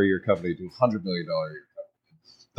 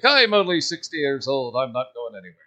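put-on terrible Irish accent. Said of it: "my terrible Irish accent".

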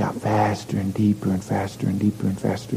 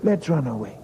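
put-on higher child voice agreeing; little girl; 5 semitones higher than usual. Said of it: "Little girl goes".

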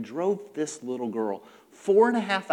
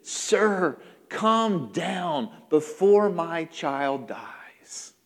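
slow, drawn-out plea; understated, measured begging; pleading; much slower than usual. Acted. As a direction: beg earnestly, letting each word hang. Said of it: "he pleaded".

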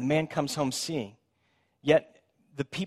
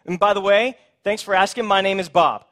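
healed beggar telling neighbours it's really him; eager insistence; 6 semitones higher, 8 dB louder than usual. Acted. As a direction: plead to be recognised, almost shouting. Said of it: "He's like".

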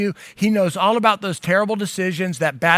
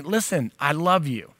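softer, sincere and tender; sincere voice of God; 4 semitones lower, 5 dB quieter than usual. Shown as a demonstration. Pastor voicing God's love to the listener, softly sincere. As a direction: say it gently, as if meaning every word. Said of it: "sincere voice of God saying".

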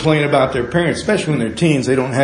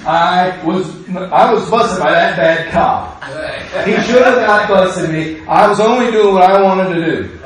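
whiny complainer. Retold or imitated. Mocking someone blaming a cop.

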